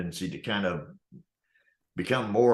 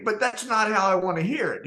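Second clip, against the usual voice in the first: much higher mock whine; petty complaint; 12 semitones higher than usual. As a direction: send up his fussiness. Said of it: "then he would say".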